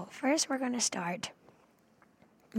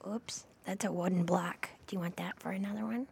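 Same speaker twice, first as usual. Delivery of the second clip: ASMR whisper; 2 semitones lower than usual. Acted. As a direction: whisper it close to the mic.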